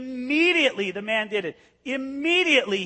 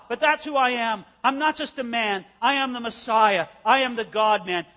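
voicing Jesus challenging; 3 semitones higher, 5 dB louder than usual. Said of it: "he looks at the religious leaders and he says".

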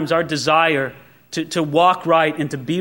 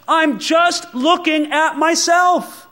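higher, slow self-absorbed cry; hammed-up self-focused cry; mock shout; 8 semitones higher, slower than usual. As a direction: pitch it up like Paul shouting at us. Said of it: "so he could shout it to us".

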